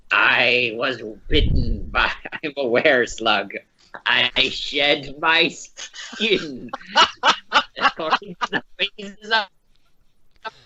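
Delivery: slow, halting tall tale breaking into laughter; laughing through a bluff. Acted. Player improvising a were-slug lie, laughing through it. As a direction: make it up slowly, cracking up as it goes.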